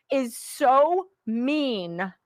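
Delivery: slow, high, whiny is so mean; mock whine. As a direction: drag it out like a sulking child. Mocking critics' complaint.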